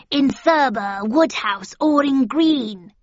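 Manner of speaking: high, loud crone voice; witch voice. A narrator's reading. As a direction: croak it like a hag. Second witch answers.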